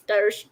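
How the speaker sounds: "Dirge" stretched toward DIE-urzh; trying a pronunciation. Shown as a demonstration. Reader unsure of a word, "Dirge" said as DIE-ursh. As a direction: try "Dirge" as two syllables, DIE-ursh.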